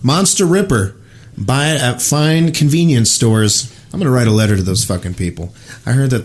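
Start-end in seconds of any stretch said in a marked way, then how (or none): 0.0-3.7 high, slow pitchman read; mock ad voice. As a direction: sell it like a cheesy ad. Mock ad jingle for energy drink.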